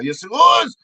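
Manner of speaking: insistent comeback. Acted. Comic contradicting the denial, insistent. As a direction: insist with a lift on "was". Arguing back, first take.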